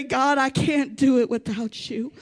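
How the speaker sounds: bow low and say it quietly; humble prayer before the King. Acted. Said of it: "humble yourself before the King and say".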